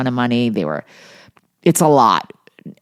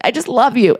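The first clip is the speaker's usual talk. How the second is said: high imitated tearful plea; mimicking a distraught girlfriend; mock hysterical crying; 11 semitones higher, 3 dB louder than usual. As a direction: plead in a hammed-up weepy squeal. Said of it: "She's hysterical crying".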